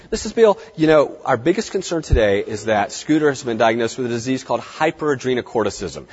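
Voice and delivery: vet explaining to owner, plain and assured; confident medical explanation. Shown as a demonstration. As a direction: state the diagnosis with authority, then explain it. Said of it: "Use the medical term".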